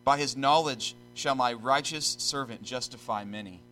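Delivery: solemn, measured scripture reading. Real, not acted. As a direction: read the verse out with deliberate pauses.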